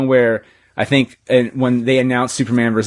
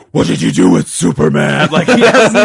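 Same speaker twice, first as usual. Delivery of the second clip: much louder and higher, mock panic; panicked quote; 4 semitones higher, 6 dB louder than usual. Batman panicking at Superman in the parody, loud and high. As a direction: freak out at the top of your voice. Batman freaking out in retold bit.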